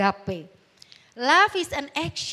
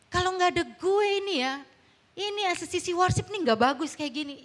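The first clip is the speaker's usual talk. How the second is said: mildly puffed-up self-importance, pitched up; boastful; 3 semitones higher than usual. Acted. Church worker claiming nothing runs without him, mock boasting. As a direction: imitate someone lightly bragging they are indispensable. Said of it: "karena itu memegahkan diri".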